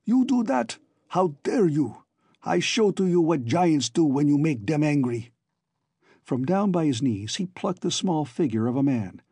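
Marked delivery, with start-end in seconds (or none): 0.0-5.3 enraged giant threatening the little people; angry shout. A narrator's reading. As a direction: roar it down at the crowd. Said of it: "He shouted".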